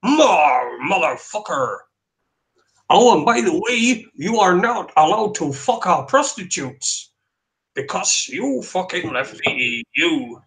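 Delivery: mock Dutch accent, hammed-up. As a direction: put on a stilted Dutch accent to refuse entry. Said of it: "give me a Dutch accent".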